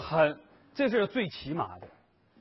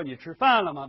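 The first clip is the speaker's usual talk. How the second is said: mock wrong reading; 9 dB louder than usual. Shown as a demonstration. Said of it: "我们不会说".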